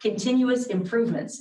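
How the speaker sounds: muffled behind a mask; through a face mask. Real, not acted. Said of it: "It's hard to talk with a mask on".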